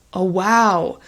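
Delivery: light, pleased oh wow; positive surprise. Shown as a demonstration. Tutor repeats the upbeat version for candidates. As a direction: greet good news gladly.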